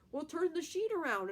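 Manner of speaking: high, loud retold correction; hammed-up exasperated friend; mock exasperation. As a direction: imitate a friend pointing out the obvious. Acting out friend correcting her.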